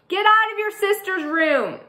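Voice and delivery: high, loud scolding call; mom calling out. Acted. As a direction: send the boys out from afar. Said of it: "Meg calls from down the hall".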